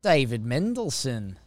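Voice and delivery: attempted Australian sliding into Liverpool; Australian accent gone the way of a famous 1960s Liverpool band. Shown as a demonstration. Co-host testing a name, Australian accent slipping into that 1960s Liverpool band sound. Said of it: "That got very Beatles-y".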